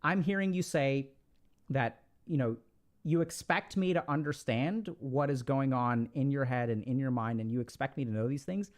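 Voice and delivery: measured, low-key reflecting back; unemotional. Shown as a demonstration. Person answering an upset partner by repeating back, unemotional. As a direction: repeat it back evenly, keeping emotion out. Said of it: "You don't wanna get emotional".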